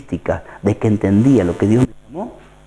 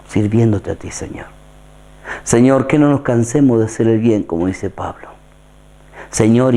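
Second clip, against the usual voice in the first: prayer. Acted. Leads a closing prayer.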